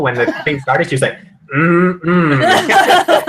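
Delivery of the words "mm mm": soup ad hum. Retold or imitated. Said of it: "sounds like a Campbell soup commercial".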